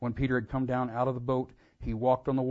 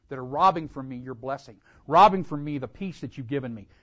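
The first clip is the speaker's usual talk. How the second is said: forceful prayer, volume raised; earnest spoken plea; crying out in prayer; 7 dB louder than usual. Acted. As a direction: keep pleading aloud to God. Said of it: "to cry out".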